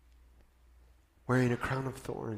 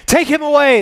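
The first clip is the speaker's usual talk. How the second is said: very high, loud mob yell; crowd shout; 16 dB louder than usual. Acted. Chief priests yelling at Pilate to take Jesus, screamed. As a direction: yell at the top of your lungs. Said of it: "they shouted".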